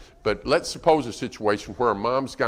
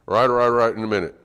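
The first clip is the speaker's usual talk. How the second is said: put-on dismissive child; 6 dB louder, much faster than usual. Child brushing off parent's call.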